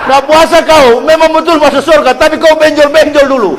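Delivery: high, laughing jab at the lazy. Real, not acted. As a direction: tease them through laughter. Preacher mocking lazy fasters.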